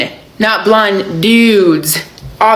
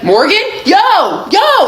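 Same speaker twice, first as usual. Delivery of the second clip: higher, slow call across the street; 10 semitones higher, much slower than usual. Retold or imitated. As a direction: call his name across the line. Bouncer calling from afar.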